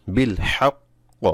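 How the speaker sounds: বিল হাক্ক said slowly, the ক delayed to show the doubling; drawn-out বিল হাক্ক, late ক; slow demo. Shown as a demonstration. Quran teacher models বিল হাক্ক for learners, slow. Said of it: "এভাবে।".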